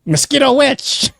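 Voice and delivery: high, squeaky pixie exclamation; indignant high-pitched little fairy; pixie correcting. Acted. Pixie corrects the misnamed witch.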